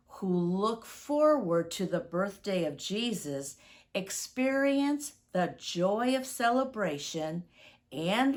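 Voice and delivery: gentle prayer voice, unhurried. Acted. Children's minister prays over the Advent candles, gentle prayer voice. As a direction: pray over the children as their leader.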